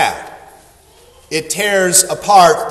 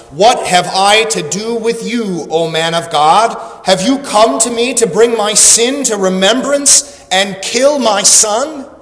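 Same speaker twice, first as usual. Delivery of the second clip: raised, higher-pitched accusing cry; anguished cry; 4 semitones higher than usual. Acted. Grieving widow to Elijah, crying out in accusation. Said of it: "she cries out as Eli-, at Elijah".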